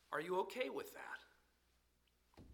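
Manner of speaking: slow, hushed whisper; whispered question. Acted. Preacher asking his congregation softly, slow whisper. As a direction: lean in and whisper it.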